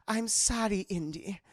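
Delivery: put-on slow, sinking German-accented farewell. Elsa takes diary from Indy, cool German accent.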